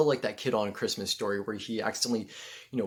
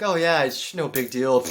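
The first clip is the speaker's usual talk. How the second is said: playing it cool; 5 semitones higher, 11 dB louder, slower than usual. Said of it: "playing it cool".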